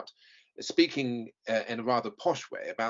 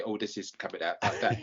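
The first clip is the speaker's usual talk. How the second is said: lightly imitated Cockney accent; Michael Caine. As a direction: slip into a hint of Cockney. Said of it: "he suddenly goes a bit Michael Caine".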